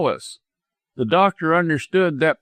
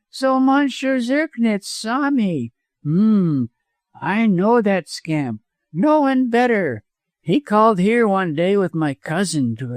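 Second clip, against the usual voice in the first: high-pitched, self-satisfied villain; mean lawyer, boastful; 7 semitones higher than usual. A narrator's reading.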